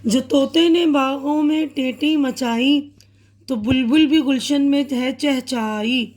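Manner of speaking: put-on measured, lilting recital of a children's poem; teacher reciting a poem to young pupils; poem recitation. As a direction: read the verse aloud to a class, with rhythm.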